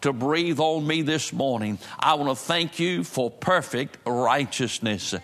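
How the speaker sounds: a steady, reverent prayer voice addressing God; earnest pulpit prayer. Real, not acted. Pastor leads congregation in prayer.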